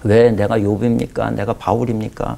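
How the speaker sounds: slow, mildly reproachful questions to God; a touch of sulky complaint, drawn out; grumbling complaint. Retold or imitated. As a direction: pastor alone in the prayer room grumbling at God, mildly reproachful. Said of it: "말도 안 되는 소리를 막 늘어놓기를".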